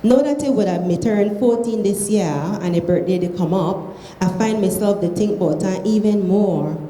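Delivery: reading aloud in Krio; Sierra Leone Creole. Shown as a demonstration. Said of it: "read it in Creole".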